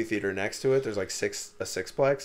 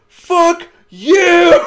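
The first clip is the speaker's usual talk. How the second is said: loud curse through laughter; laughing curse; 14 dB louder than usual. Retold or imitated. Friends yelling at Tim through laughter. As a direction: yell it at him while cracking up.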